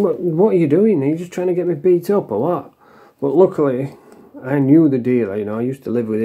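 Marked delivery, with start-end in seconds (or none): 0.0-2.7 mildly exasperated, higher-pitched questioning; retold incredulous protest. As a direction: challenge the troublemaker in a raised pitch, lightly acted. Retold alarmed reaction to troublemaker.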